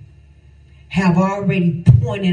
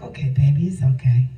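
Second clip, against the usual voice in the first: soothing; 4 semitones lower than usual. Pretend. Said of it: "you be like".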